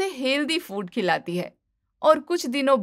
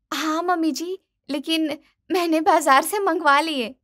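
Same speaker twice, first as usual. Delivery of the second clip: higher, sweet-innocent bahu voice; smug daughter-in-law; 6 semitones higher than usual. Acted. Daughter-in-law to mother-in-law, feigning innocence: high, sugary. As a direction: play the cheeky young wife.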